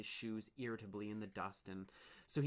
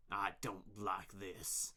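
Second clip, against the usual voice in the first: darkly; 3 semitones lower, slower than usual. Acted. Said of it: "Chugger said darkly".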